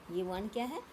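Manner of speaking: ordinary delivery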